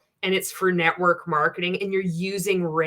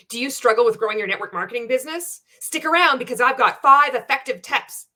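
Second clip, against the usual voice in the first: bright, rushed sales pitch, a touch higher; peppy marketer parody; 3 semitones higher than usual. Acted. Mocking a network marketer's live video, hyped pitch. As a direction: ham up a scripted Facebook Live intro. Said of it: "nobody fucking talks like that".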